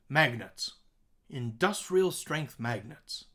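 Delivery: MAG, DUS and STRENGTH punched in "Industrial strength magnets"; stressed syllables demo. Shown as a demonstration. Teacher giving an example of stressed syllables, stresses lifted. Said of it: "Here's an example".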